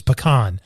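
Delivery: PECAN said puh-KAHN, stress on the second syllable; Texas pronunciation. Shown as a demonstration. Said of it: "I got schooled quickly".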